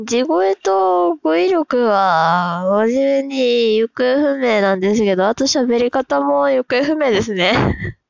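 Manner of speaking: 語尾を長く伸ばした、ゆっくりめの作った喋り; 元の作り声に戻して間延びさせる; さっきのトーン. Shown as a demonstration. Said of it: "さっきのトーンに戻していい？". (さっきのトーンに戻した喋り方)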